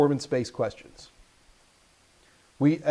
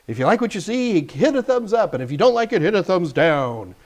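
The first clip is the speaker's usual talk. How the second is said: Quickie Baby impression; 3 semitones higher than usual. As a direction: mimic a gamer's upbeat outro, lifting the pitch. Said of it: "Quickie Baby? It's like".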